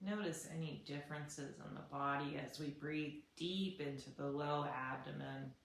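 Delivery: soft, unhurried breathing guidance; guided body scan. Shown as a demonstration. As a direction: guide them calmly through deep breaths.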